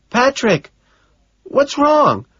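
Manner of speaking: a secretary passing on messages; Gene's voice. Acted. Secretary worried on phone.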